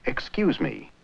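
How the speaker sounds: heavy stress on the second syllable of "Excuse", with "me" falling away. Shown as a demonstration. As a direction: lean hard on the "cuse" of "Excuse", keep "me" unstressed. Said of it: "with a heavy stress on the Q's of excuse".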